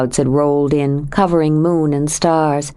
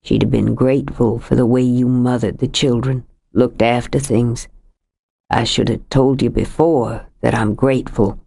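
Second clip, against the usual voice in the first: lightly voiced older man, lower, heavy with grief; a lightly lowered voice for a grieving husband; grieving Sam; 5 semitones lower than usual. Sam thanks Kate.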